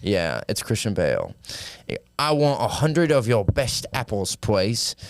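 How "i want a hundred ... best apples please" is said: lightly voiced big British baby; a hint of a whiny posh toddler asking nicely. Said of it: "he talks like a big British baby".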